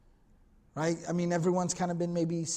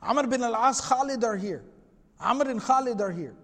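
higher-pitched, mildly excited retelling; excited announcement; 4 semitones higher than usual. Retold or imitated. Man at the well announcing the arrivals, excited. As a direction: act out someone bursting to share news. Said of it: "you know, very excited".

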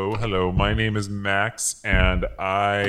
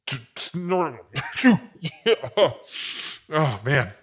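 slow high word dissolving into laughter; laughing; 5 semitones higher, much slower than usual. Acted. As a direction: barely hold it together then crack up. Corrects word mid-laugh.

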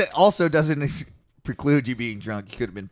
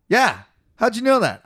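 high, loud eager question; retold delighted surprise; 9 semitones higher, 6 dB louder than usual. Swede amazed his accent was guessed, imitated excitement.

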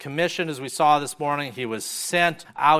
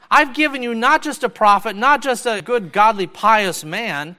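higher and louder, a proclaiming heavenly Father; booming voice of God; 8 semitones higher, 6 dB louder than usual. Acted. God the Father announcing his Son to the people, higher and louder. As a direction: thunder it down as God speaking from heaven.

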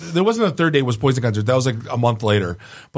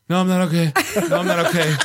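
retold panic; 5 semitones higher, faster than usual. Retold panic, clutching the wheel.

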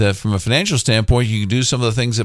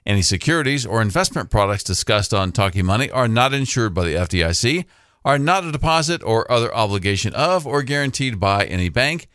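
fast legal disclaimer. Acted. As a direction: rattle off the fine print.

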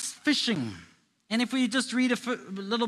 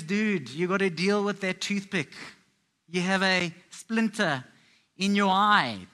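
casual joking Jesus. Retold or imitated. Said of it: "Jesus is having fun here, joking around".

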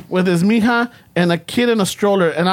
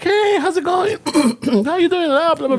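imitating the wife; 10 semitones higher than usual. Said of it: "she's like".

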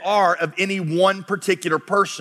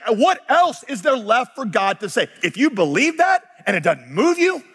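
raised-pitch incredulous questioning; exasperated, bewildered; 4 semitones higher than usual. Retold or imitated. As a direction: voice the writer's baffled disbelief. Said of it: "He's like".

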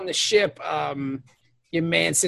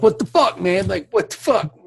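annoyed; 3 semitones higher, 3 dB louder than usual. Retold or imitated. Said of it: "Cisco gets mad".

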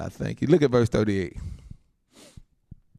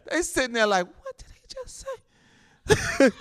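high, slow, drawn-out bewildered question; stunned disbelief; 11 semitones higher, slower than usual. Acted. Preacher mimics people hearing the testimony, stunned disbelief. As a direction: act out a baffled listener, pitched way up.

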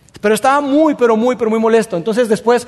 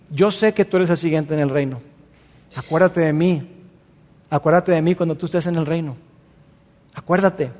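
tearful plea; 4 semitones lower, 4 dB quieter than usual. Acted.

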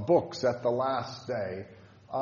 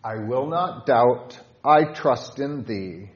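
hymn line read aloud; 2 semitones lower, 3 dB louder than usual. Shown as a demonstration. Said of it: "With stanza five".

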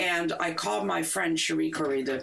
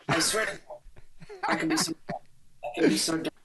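laughing at herself; 13 semitones higher than usual. Real, not acted.

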